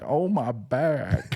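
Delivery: mock pained groan. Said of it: "he was like".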